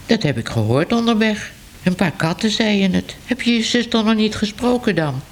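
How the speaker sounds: a hint of a chatty cat passing on news; newsroom cat. Cat voiced higher in story.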